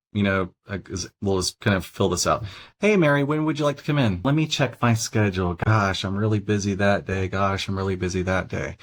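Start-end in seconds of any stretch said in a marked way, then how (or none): 2.8-8.8 open question demo. Shown as a demonstration. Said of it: "closed-ended question".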